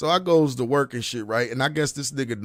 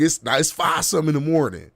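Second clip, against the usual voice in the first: usual speaking voice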